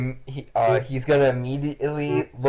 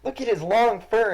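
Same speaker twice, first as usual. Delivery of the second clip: put-on much higher, excited child; little girl Isabella; 11 semitones higher than usual. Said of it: "and is like".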